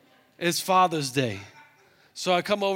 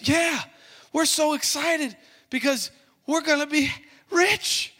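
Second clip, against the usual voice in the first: gleeful host; 8 semitones higher than usual. Retold or imitated. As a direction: whoop like a man about to be rich. Excited host about getting rich.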